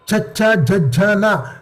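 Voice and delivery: cha cha ja ja na with the tongue centre against the palate; palatal consonants demo. Shown as a demonstration. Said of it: "tongue lifts up and goes towards the top".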